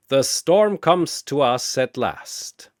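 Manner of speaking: put-on slow, measured old master; conversational. Chen greeting the approaching Shazam, slow and measured. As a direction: savor each word between sips. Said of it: "Chen says conversationally".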